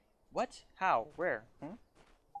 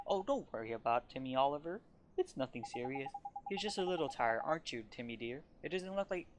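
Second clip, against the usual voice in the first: put-on doting old cat lady. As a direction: coo over the tired cat like a baby. Voices Layla, the cat owner.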